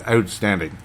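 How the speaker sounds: a touch of Canadian accent. Real, not acted. Host praising the guy's radio voice, slight Canadian accent. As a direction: slip briefly into a Canadian accent. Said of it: "see, there's a Canadian accent".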